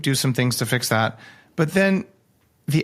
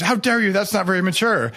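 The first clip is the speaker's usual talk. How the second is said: indignant, higher-pitched retort; mock outrage; 6 semitones higher than usual. Troll answering back on social media, mock outrage. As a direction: imitate an offended online troll. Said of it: "they get enraged".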